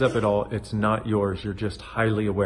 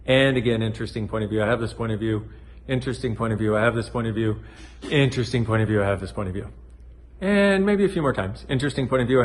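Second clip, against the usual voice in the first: repeated mantra; faster than usual. Shown as a demonstration. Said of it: "just get the energy and go".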